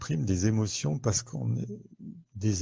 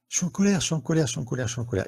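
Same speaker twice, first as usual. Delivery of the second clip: mimed anger, fading; 6 semitones higher, much faster than usual. Shown as a demonstration. Host mimes anger for viewers, hammed-up then fading. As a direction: play-act the angry face in your voice and let it die down. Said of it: "Je vous refais le, le mime".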